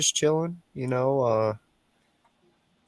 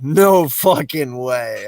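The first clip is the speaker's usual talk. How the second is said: retold disbelief; 5 dB louder, much slower than usual. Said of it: "I was like".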